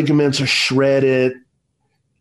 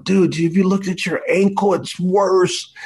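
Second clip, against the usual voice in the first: higher-pitched disbelief; incredulous protest; 5 semitones higher than usual. Retold or imitated. Dad to son about wrecked ankle, high incredulous protest. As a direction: replay a dad objecting, voice pitched up. Father disputes son's optimism.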